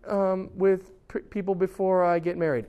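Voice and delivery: puzzled person lost in a huge book; bewildered reader. Retold or imitated. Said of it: "they're like".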